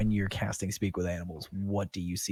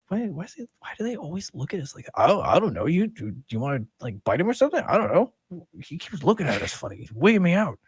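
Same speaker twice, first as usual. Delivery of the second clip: much higher, jittery horse voice, partly louder; nervous gossiping horse; 10 semitones higher, 6 dB louder, faster than usual. Acted. Horses whispering about the staring druid, high jittery voice.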